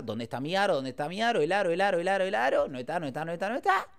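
mounting frantic repetition; retold frantic mother. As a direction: lightly mimic a mother starting to panic. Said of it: "mi vieja empieza".

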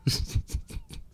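soft, voiceless chuckle; quiet laughing. Real, not acted. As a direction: laugh almost without voice. Lacht über das Spiel. (leises, tonloses Lachen)

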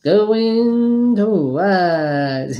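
auctioneer call. Acted.

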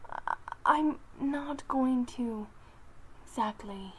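halting, stumbling slow words; stuttering. Acted. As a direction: stammer and trail off. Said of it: "Sunheart was stuttering".

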